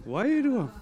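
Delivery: wairua said gently, falling on the end; Māori pronunciation. Shown as a demonstration. Pointing out the Māori word wairua, savoured.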